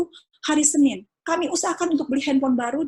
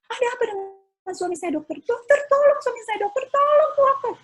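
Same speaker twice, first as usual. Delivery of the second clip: desperate plea; 11 semitones higher, 5 dB louder than usual. Retold or imitated. Frantic call to doctor retold.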